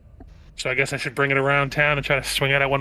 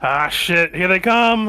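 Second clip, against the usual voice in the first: shouted warning to the group; yelling; 5 semitones higher, 5 dB louder, much slower than usual. Acted. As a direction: yell it out in alarm. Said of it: "I yell out to everybody".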